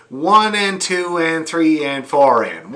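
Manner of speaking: "One and two and three and four and" counted slowly and evenly; slow counting demo. Shown as a demonstration. Fiddle teacher demonstrating the count, slow and even. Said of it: "it's like this".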